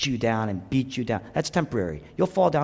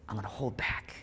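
much softer, lower, held-back promise; hushed restraint; 4 semitones lower, 13 dB quieter than usual. Acted. Preacher voicing God holding back quietly. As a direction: pull the voice right down. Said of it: "He says".

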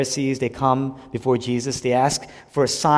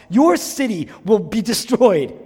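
higher, louder, slow menace; Jonah's doom cry; 8 semitones higher, 6 dB louder, slower than usual. Acted. Jonah threatening the city, loud and slow. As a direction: boom the threat. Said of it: "He preached violence".

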